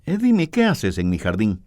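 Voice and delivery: a hint of a kind king speaking gently; gentle. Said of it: "Él con voz suave le dijo".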